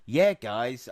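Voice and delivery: a quick hint of an American accent on yeah; lightly put-on American drawl of yeah guys; half-hearted American accent. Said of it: "I don't wanna do an American accent".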